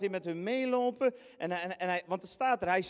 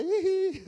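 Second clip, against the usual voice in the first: high, loud playful hihi; teasing giggle; 11 semitones higher, 8 dB louder than usual. Acted. Jesus giggles while strolling past the struggling rowers. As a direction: giggle as if slipping past unbothered.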